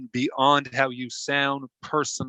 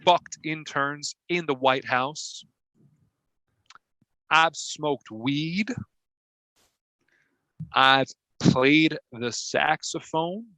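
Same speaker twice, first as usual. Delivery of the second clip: put-on contestant boasting to a talent show judge in a Southern accent; Bill Clinton impression. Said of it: "my name's Bill Clinton".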